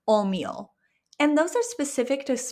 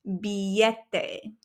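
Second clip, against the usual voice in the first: slow and clear. Shown as a demonstration. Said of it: "Let's say it together".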